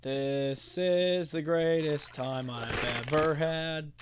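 slow, deadpan sarcasm; sarcastic. Real, not acted. Gamer sarcastically praises a frustrating moment, slow. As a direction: drag it out mockingly.

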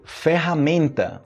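"ferramenta" drawn out, R as breathy H; careful model "ferramenta", syllable by syllable; slow double R. Shown as a demonstration. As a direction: say "ferramenta" slowly as "fe-ha-MEN-ta". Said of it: "pronúncia do duplo R em português".

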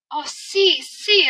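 high, loud excited cry; great excitement. A narrator's reading. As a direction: burst out in delight. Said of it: "rief Heidi in großer Aufregung". (in großer Aufregung, hoch und laut)

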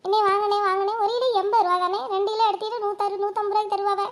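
calling out to a buyer. Acted. Vendor hailing a customer loudly.

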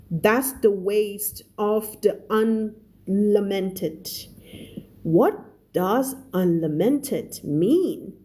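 measured, careful storybook narration; story read-aloud. A narrator's reading. Teacher reading The Christmas Pig to Thai learners, careful story narration.

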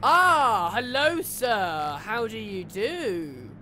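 slow, overly genteel hello; mock polite greeting. Gamer mockingly greeting a creature, slow and polite. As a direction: greet it like a gentleman, drawn out.

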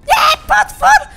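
very high, loud, drawn-out scream; startled scream. Real, not acted. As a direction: shriek in alarm at the monster. Spotted by monster while hiding.

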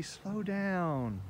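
very slow, stretched words; drawn-out slow down. Shown as a demonstration. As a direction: stretch each word out slowly. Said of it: "Slow down and read the bees".

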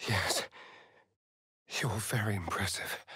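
breathy whispered compliment. Acted. Vampire whispers a compliment to his companion. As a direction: lean in and whisper it close.

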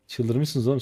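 ordinary talk, nothing marked

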